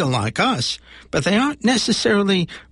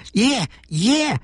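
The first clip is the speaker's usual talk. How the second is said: monster voice; 7 semitones higher than usual. Acted. Monster happy agreeing.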